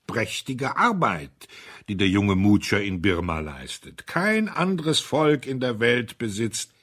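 lightly voiced speechmaker holding forth; stately old gentleman. Mister Audley speaks after throat-clearing.

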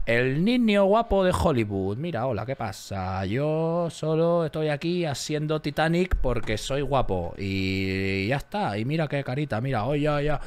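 lightly voiced vain heartthrob; a hint of a smug Hollywood pretty boy; pretty boy actor. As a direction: preen like a teen idol. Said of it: "los actores que empiezan en plan".

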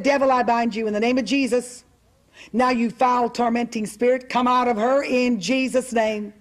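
loud command. Retold or imitated. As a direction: command the spirit out, somewhat loudly. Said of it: "I said as loudly as I could".

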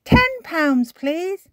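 sweetly name the price; lightly voiced Miss Rabbit. A narrator's reading. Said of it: "says Miss Rabbit".

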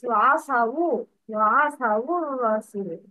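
وعصوا ending in a short u, linked quickly into الرسول as wa-asawur-rasul; added dhamma. Shown as a demonstration. Teacher models the rule, وعصوا الرسول run together as wa-asawur-rasul. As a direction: join وعصوا to الرسول with u and a doubled r. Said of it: "Dhamma is added instead of sukun".

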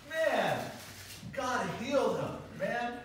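high, loud amazement; excited, high and loud; amazed. Real, not acted. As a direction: marvel out loud at the miracle. Marveling at the healing.

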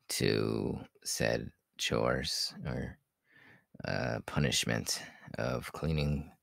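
slow, drowsy trailing speech; nodding off. Real, not acted. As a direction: drift off mid-sentence. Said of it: "like, half asleep".

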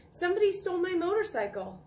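high-pitched, loud outcry; boy's shout. A narrator's reading. Boy telling his mother of the theft, shouting. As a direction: raise the alarm in a boy's high voice. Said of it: "shouted the boy".

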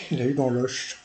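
mock Portuguese accent, "Oche" ending in sh. Commentator repeating his joke on Portugal, light mock Portuguese accent. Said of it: "dit-il avec l'accent portugais".

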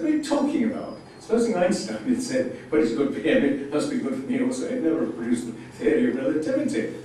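re-enacted indignant protest, starting very high; indignant, excited. Retelling his argument with Camus, indignant and excited. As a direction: protest excitedly, pitch leaping up then settling. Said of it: "indignant and excited and said".

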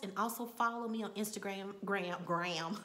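Instagram in a Texas accent. Real, not acted. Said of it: "My Texas accent came out".

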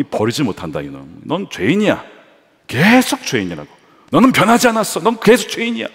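rising to high, loud condemnation; stern accusing Javert. Retold or imitated. Javert accusing Valjean, building to a loud high charge. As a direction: pin him down as a sinner.

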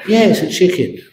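laughing concession. Acted.

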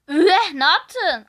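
shocked. Real, not acted. Soruya şaşkın tepki.

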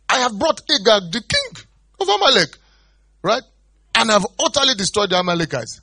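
high, loud self-justifying; boasting Saul. Retold or imitated. Saul insisting to Samuel he obeyed, high and loud. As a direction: proudly defend yourself.

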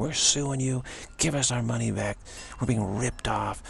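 mild mock outrage, slowing at the end; retold anger. Angry audience threatening to sue the singer, retold anger. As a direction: threaten with understated indignation. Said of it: "They're so angry".

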